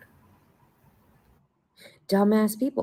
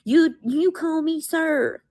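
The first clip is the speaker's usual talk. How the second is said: much higher and slow, a put-on voice; mock officer voice; 10 semitones higher, slower than usual. Mocking the officers with a silly slow voice. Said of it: "Even the officers".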